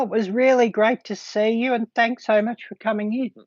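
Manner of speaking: hiccuping while talking; hiccups. Real, not acted. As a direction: talk through hiccups. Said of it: "now I'm hiccuping".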